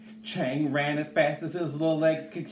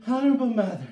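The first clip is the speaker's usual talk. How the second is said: high, loud cry to mother; high-pitched pleading shout; desperate child's call; 9 semitones higher, 7 dB louder, much faster than usual. A narrator's reading. Child desperately calls his mother.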